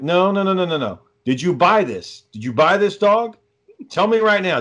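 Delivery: retold confrontation, pitch climbing; acting out an exasperated cross-examination; indignant interrogation. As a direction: cut off the excuse and demand an answer. Acted quarrel, demanding an answer.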